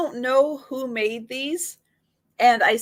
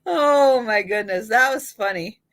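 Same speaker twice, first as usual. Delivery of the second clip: laughing. Real, not acted. Laughing after own leprechaun joke.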